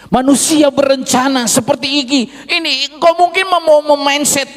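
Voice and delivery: high, loud, driving sermon climax; preaching at full force. Acted. Preacher drives home God's plans to the congregation, loud and high. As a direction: build to the peak of the sermon.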